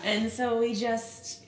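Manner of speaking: slow, tearful voice catching; real tears breaking into the words; choked up. Real, not acted. Emotional memory of the good news.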